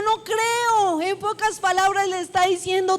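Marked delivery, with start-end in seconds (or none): 0.0-1.0 higher-pitched acted admission of doubt; emphatic confession. Preacher voices the father confessing to Jesus, emphatic admission. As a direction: blurt it out for the struggling father.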